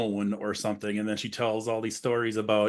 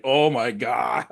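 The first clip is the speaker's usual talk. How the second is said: slow, drawn-out horrified cry; shocked cry; slower than usual. Retold or imitated. Woman with a mouth full of blood, horrified. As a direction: gasp it out in horror. Heroine bites into glass bulb.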